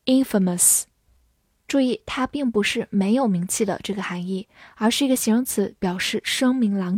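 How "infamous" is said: "infamous" stressed on IN, IN-fuh-mus; stress on first syllable. Shown as a demonstration. Teacher shows learners the shifted stress, "infamous" with stress on IN. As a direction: hit the first syllable of "infamous", reduce the rest. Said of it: "重音也发生了变化，读作".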